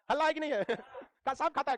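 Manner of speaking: amused, breaking into a laugh; laughing tease. Real, not acted. Storyteller teasing the Nagaland friend about snakes, laughing. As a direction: ask it teasingly through laughter.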